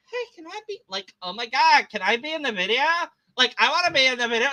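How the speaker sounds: put-on high, eager valley-girl hint; lightly voiced Heather. Heather begging to appear in the video, eager. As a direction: gush about being in the video.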